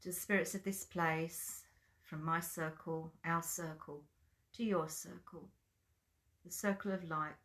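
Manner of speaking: measured invocation with long pauses; opening prayer. Real, not acted. Leading online circle in blessing, prayerful. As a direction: offer each phrase reverently, letting it settle.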